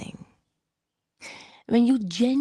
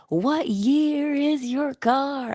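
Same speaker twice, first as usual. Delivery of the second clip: retold yell; 9 semitones higher, much slower than usual. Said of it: "he yells to me".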